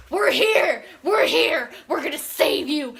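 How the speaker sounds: high, loud heroic call, easing at the end; hammed-up shouted arrival; mock rescue shout. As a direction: burst in hollering like the cavalry.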